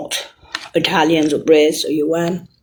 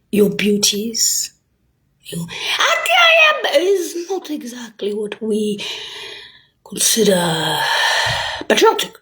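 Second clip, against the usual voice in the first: whispered aside; slower than usual. Real, not acted. Confiding aside.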